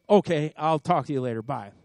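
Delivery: quick, curt hang-up, words rushed together; abrupt goodbye. Retold or imitated. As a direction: brush him off fast and end the call. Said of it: "And then abruptly".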